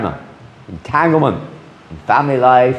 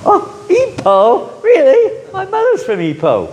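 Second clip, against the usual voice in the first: stretched out, much higher and delighted; delighted surprise. Retold or imitated. Expat hearing a stranger is from Ipoh, stretched out and delighted. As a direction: squeal the hometown back like it's a miracle. Expat meets fellow Malaysian abroad.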